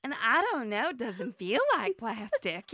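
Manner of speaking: lightly mimicked southern drawl; Linda's southern accent. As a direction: puzzle it out with a touch of southern twang. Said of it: "doing a little impression of her".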